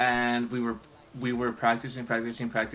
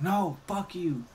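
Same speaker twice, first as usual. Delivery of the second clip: higher, slow, mock-defiant snap; defiant retort; 8 semitones higher, slower than usual. Student defying the commander at practice, higher defiant snap. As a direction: throw it back at him like a teenager.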